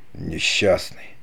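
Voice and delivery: slow, soft and pitying; sad. A narrator's reading. Don Pedro pities his fallen brother, softly sad. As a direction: sigh the word out in pity. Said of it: "печально проговорил он".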